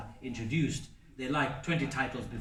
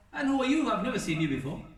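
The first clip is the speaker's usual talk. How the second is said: put-on surprised old woman; 8 semitones higher, faster than usual. Old woman meets the Prophet.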